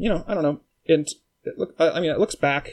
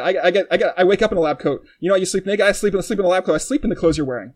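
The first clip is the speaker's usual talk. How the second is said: louder, pushy future self ranting; future self insisting; 3 dB louder, faster than usual. Acted. Future self lecturing his past self about clothes, insistent and loud. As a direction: lay it on thick, you know better.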